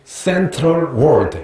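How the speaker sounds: put-on Korean-accented English. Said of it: "그래서 내가 다섯 번이나".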